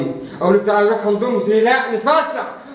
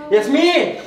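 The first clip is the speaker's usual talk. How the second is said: calling out angrily; 6 semitones higher than usual. Acted. Husband calling his wife who won't answer, angry yelling. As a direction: yell for his wife through the house. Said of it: "مالك بتزعق ليه؟".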